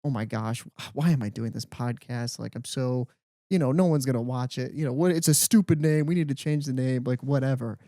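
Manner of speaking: mock self-critical rant that gains volume; embarrassed self-doubt. Imagining old self doubting the podcast, embarrassed. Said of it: "You would have been embarrassed".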